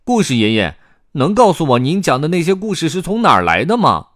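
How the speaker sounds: high, loud, curious youngster; 好奇提问的卡梅利多. A narrator's reading. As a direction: ask grandpa eagerly in a high character voice. 卡梅利多向爷爷提问. (高亢好奇的小角色提问)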